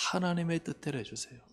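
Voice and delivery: soft, yielding prayer with "하나님의" leaned on; gentle, surrendered plea; humble prayer. Shown as a demonstration. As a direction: quietly give the matter over to God.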